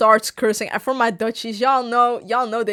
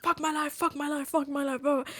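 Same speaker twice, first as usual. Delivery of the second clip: soft, repetitive mock rant; 2 semitones higher, 8 dB quieter than usual. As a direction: mutter the curses on a loop. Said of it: "he just kept being like".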